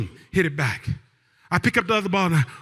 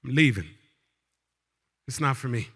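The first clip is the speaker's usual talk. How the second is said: low, resigned mock defeat; frustrated giving up; 7 semitones lower, 3 dB quieter than usual. Teller quits tennis with cousin's husband, frustrated and resigned. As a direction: drop the pitch and quit, with pauses between sentences. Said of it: "Finally, I got frustrated".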